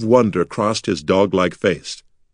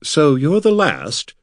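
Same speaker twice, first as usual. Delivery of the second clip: slow, higher-pitched breathless question; 7 semitones higher, slower than usual. A narrator's reading. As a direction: ask it in hushed-up wonder, drawn out. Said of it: "Corin asked breathlessly".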